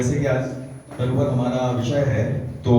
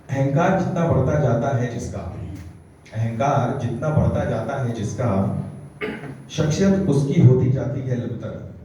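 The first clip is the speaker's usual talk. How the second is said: emphatic, evenly paced declamation; poetry recitation. Acted. Poet urging listeners to be like trees, declaimed recitation. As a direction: recite it as counsel in verse.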